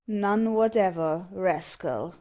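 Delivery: slow, lightly menacing answer; menacing villain. Acted. Unseen speaker answers the trapped dwarf, slow and menacing. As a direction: pronounce it slowly as a villain.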